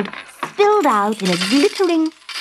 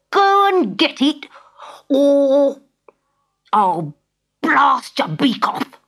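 bank robber; 5 semitones higher than usual. Acted. Robber threatens Dodo.

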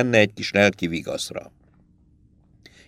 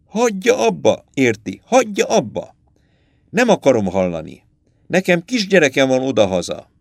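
frightened plea; 3 semitones higher than usual. Acted. Frightened writer begs captain to stop.

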